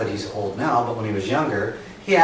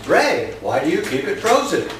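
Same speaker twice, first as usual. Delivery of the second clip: lightly voiced curious viewer, higher; imagined viewer's question; 5 semitones higher than usual. Viewer asks the gardener about compost, lightly voiced questioner. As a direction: ask it for the audience, pitched up a bit. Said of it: "See how I ask questions for you?".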